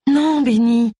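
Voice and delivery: douce voix d'épouse, plus haute. A narrator's reading. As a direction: retiens doucement ton mari, voix aiguë. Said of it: "répondit sa femme d'une voix douce". (voix douce et haut placée)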